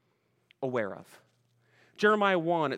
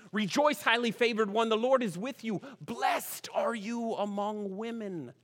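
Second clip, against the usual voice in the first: King James reading; 4 semitones higher than usual. Shown as a demonstration. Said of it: "this is the way they say it".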